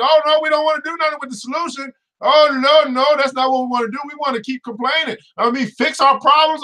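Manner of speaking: mock people who only complain; mocking complainers.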